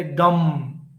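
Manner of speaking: "dumb" stretched as a slow strong beat; long stressed syllable. Shown as a demonstration. Teacher showing the long finger joint, stress on "dumb". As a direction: take your time on "dumb". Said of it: "We take more time to stress this syllable".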